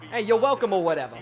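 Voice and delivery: Italian-American Jersey greeting, falling at the end; Italian New Jersey accent. Shown as a demonstration. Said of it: "You put a little bit of Italian".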